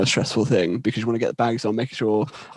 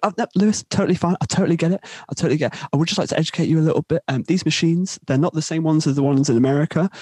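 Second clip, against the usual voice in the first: higher-pitched placating official; polite supervisor; 5 semitones higher than usual. Retold or imitated. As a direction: imitate a manager smoothing things over. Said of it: "supervisor is so polite".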